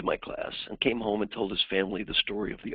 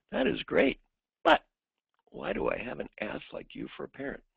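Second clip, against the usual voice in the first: high mocking echo of the parent's words, then resentful; sarcastic kid; 3 semitones higher than usual. Kid mocking the parent in his head, sarcastic. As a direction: parrot the parent with a sneer. Kid's mocking inner thought.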